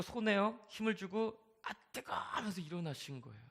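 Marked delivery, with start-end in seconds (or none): 1.6-2.1 startled yelp. Retold or imitated. Woman feels heat, stands up.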